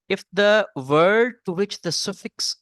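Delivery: very slow, deliberate rule reading; dictating a rule. Acted. Teacher slowly dictating a spelling rule to students. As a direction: spell the rule out word by word for the class. Reads the next rule aloud.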